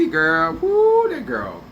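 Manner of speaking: normal talking voice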